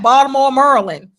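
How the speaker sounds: Baltimore, Maryland as "Baw-mor, Murlin"; Baltimore pronunciation. Retold or imitated. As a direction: swallow the middles of Baltimore, Maryland. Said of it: "and they be like".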